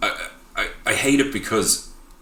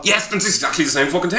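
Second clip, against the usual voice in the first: high, eager burst of agreement; emphatic agreement; 10 semitones higher, 3 dB louder than usual. Real, not acted. Podcaster seizing on co-host's film comparison, emphatically agreeing. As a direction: jump in, pitched well up.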